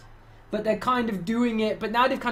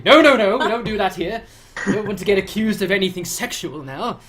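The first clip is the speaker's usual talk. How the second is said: prim refusal; 6 dB louder than usual. Retold or imitated.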